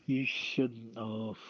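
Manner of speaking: ordinary talk, nothing marked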